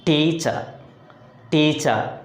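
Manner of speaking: "teacher" with extra force on TEA; TEA-cher, first syllable stressed. Shown as a demonstration. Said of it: "The first syllable sounds loud".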